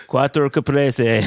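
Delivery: loud Italian order called to the kitchen; retold call-out. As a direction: call the order through to the back. Retold counterman calls to sandwich maker.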